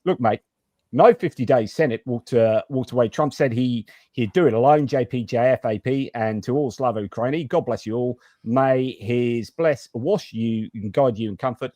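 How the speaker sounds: lightly put-on Australian accent reading a donation message; mock Australian accent. Host reading a viewer's donation in a mild mock Australian accent. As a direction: read it like a hammed-up Australian bloke. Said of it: "it's time for me to talk Australian".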